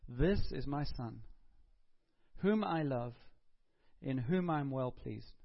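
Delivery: slow, solemn proclamation; voice from heaven. Retold or imitated. Preacher retelling God's words at the baptism, slow and solemn. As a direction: proclaim it slowly like heaven speaking. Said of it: "the voice out from heaven says".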